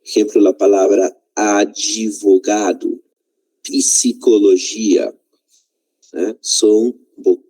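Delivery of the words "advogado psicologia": "advogado" as a-dji-vogado and "psicologia" as pi-si-cologia, slowly; Brazilian inserted vowel. Shown as a demonstration. Teacher showing how consonant clusters are pronounced, "advogado" and "psicologia" slowed with an extra i. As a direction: slowly sound out "advogado" and "psicologia" with an added i after d and p. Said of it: "vai haver uma forma de pronunciar".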